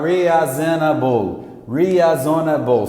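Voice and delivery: "Reasonable" slowly as hee-a-zo-na-bol, Brazilian style; every syllable of "reasonable" in a Brazilian accent. Shown as a demonstration. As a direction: Brazilian misreading of "reasonable", spelling pronounced. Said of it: "como é que o brasileiro falaria".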